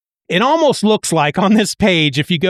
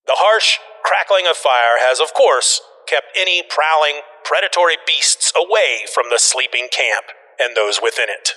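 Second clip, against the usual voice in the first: measured storyteller voice; dramatic caption narration, falling at the end; comic narration reading. A narrator's reading. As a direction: read it as a solemn tale.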